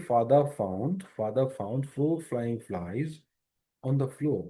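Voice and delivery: "father found four flying flies" run together, each F clear; slow drill of "four flying flies", stressing the F sounds; tongue-twister demo. Shown as a demonstration. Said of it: "তাহলে একসাথে যদি বলি".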